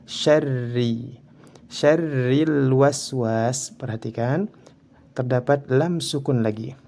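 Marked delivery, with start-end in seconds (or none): 0.0-1.2 "Syarri" with a light, thin rolled r; "Syarri" with unrounded, thin ra. Shown as a demonstration. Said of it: "harus dibaca tipis". 1.7-3.7 slow "Syarril waswas" with l fully sounded; drawn-out "Syarril waswas", clear l; clear lam. Shown as a demonstration. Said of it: "ini harus dibaca jelas".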